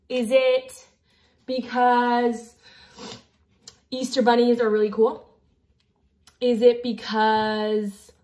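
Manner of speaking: drawn-out "because", as if thinking hard; slow, hesitant quiz-show musing; pondering guesses. Pretend. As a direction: stretch the words while pretending to puzzle it out. Mock guessing at a quiz question.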